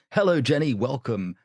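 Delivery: demonstrating a Royal Tunbridge Wells accent; lovely southern English Trumpton greeting, starting lifted. Shown as a demonstration. Guest showing Jenny his Royal Tunbridge Wells voice, southern English accent. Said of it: "My friend calls it my Trumpton voice".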